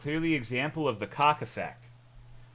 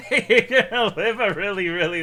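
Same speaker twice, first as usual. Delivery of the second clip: high laughing words; 9 semitones higher, 8 dB louder than usual. Real, not acted. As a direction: laugh through the line. Laughing at own joke.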